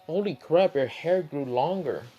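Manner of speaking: high-pitched acted astonishment; surprised recognition. Shikamaru recognizing long-gone Naruto, acted surprise.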